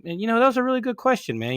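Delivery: lightly voiced, high friendly praise; imitating Renee. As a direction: Renee cheering on a nervous fan. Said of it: "It's like".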